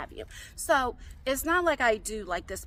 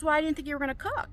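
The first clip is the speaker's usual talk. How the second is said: higher, quick mimicry of a daughter; quick quoted excuse, pitched up; imitating daughter's excuse; 7 semitones higher, faster than usual. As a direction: toss off a rushed, high-pitched mock excuse. Daughter's excuse voiced in retold spat.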